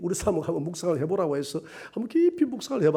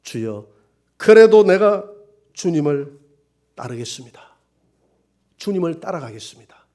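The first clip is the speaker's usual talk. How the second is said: tearful vow; 6 dB louder than usual. Retold or imitated. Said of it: "하나님 앞에 울면서".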